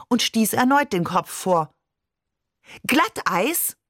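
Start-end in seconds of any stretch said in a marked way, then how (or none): 2.9-3.8 sharp, higher-pitched challenge; scharf. A narrator's reading. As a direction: question it cuttingly, rising at the end. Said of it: "Sie klang scharf wie ein Säbel". (schneidend scharfe Nachfrage)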